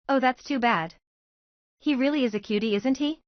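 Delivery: playful teasing, rising at the end. A narrator's reading. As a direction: tease her about the boy. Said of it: "Sakura's mom teased her daughter".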